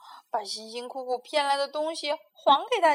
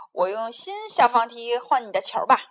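coaxing; 10 dB louder than usual. A narrator's reading. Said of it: "连哄带骗地说".

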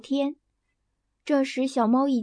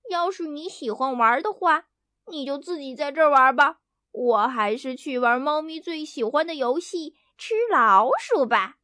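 grumbling. Acted. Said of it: "嘟嘟囔囔地说".

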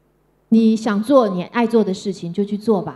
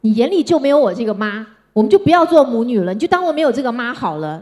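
louder, hurt scolding of the daughter; retold angry outburst; 3 semitones higher, 4 dB louder than usual. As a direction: lash out at her, wounded. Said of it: "我记得我就告诉她说". (妈妈对晚归的女儿生气地大声责备)

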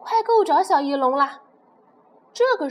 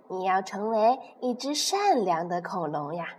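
gentle mother; 5 semitones lower than usual. Acted. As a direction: coax the baby to sleep. Mother lulling baby to sleep.

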